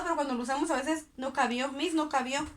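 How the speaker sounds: mock learner saying no cabió; a quick slip, as a careless speaker would say it; wrong form. Shown as a demonstration. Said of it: "Entonces, no, no cupo". (forma incorrecta dicha a propósito)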